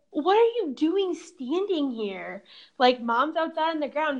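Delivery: retold frantic outburst. Frantic outburst at dad in story.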